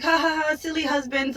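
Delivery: mock their careless laughter at husbands; hammed-up fake chuckle; mock laughing. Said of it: "And they laughed about it".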